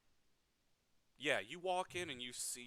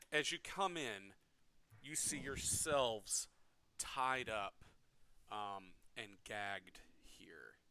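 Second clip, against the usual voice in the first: game master scene setting. A narrator's reading. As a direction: paint the dungeon scene for the players. GM describes the captive scene.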